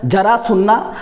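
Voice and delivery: जरा said wrongly as "jaraa", j for z; mispronounced j. Shown as a demonstration. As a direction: say जरा with a hard j in place of z. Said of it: "गलत बोल रहे हैं".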